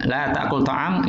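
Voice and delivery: "La ta'kul ta'am" read slowly, no kasra; slow drilled Arabic; slow model reading. Shown as a demonstration. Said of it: "ini kasrohnya tidak ada".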